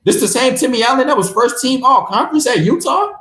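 venting real frustration over the loss; mad as hell. Real, not acted. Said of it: "I'm really mad".

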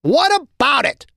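high, smug retort; shot back. Acted. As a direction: snap it back with perverse satisfaction. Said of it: "Draba shot back".

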